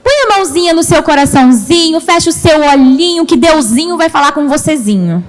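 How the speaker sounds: imitação leve de tia falando com criancinhas; tom infantilizado. Shown as a demonstration. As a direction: exagere os diminutivos, como quem infantiliza um pouco. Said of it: "tendência da gente infantilizar". (imitando de leve uma fala infantilizada)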